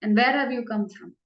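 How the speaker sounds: a hint of a coy lady asking the snake; Krishna as Vindhyavali. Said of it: "So as Vindhyavali, he asks".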